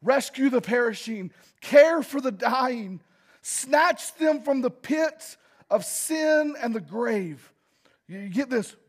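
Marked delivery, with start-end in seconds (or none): 0.0-7.5 hymn words recited. Shown as a demonstration. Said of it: "It says".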